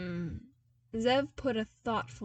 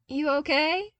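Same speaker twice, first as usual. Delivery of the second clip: grinning; 8 semitones higher, 10 dB louder than usual. A narrator's reading.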